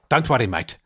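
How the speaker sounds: clipped South African, said again the same way. Shown as a demonstration. Dentist repeating the clipped line, in a South African accent. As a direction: clip it short like a South African. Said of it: "It's quite clipped".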